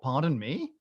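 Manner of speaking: mildly puzzled echo, rising at the end; incredulous echo. Retold or imitated. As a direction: repeat 'Pardon me?' as a restrained question. Echoing the passenger's words in disbelief.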